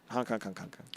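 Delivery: honks dying away to nothing; fading clown honks. Acted. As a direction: let the honks fade out.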